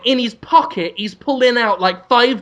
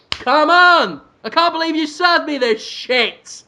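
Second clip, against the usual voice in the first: exasperated, high-pitched chef tirade; indignant TV-chef rant; Gordon Ramsay; 8 semitones higher than usual. Acted. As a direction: berate the kitchen in a raised pitch. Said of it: "pulling out old bits of food and going".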